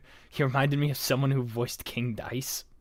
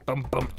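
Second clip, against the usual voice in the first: vocal beat; 4 dB quieter than usual. Acted. Mouths the song's beat.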